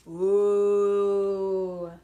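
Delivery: surprised ooh. Real, not acted. Reacting to drawn card.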